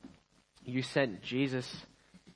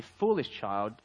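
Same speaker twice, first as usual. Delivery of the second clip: mild, understated motherly reproof; gentle and wise; 3 semitones lower than usual. Acted. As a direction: calmly set the child straight. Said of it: "she said very gently and very wisely".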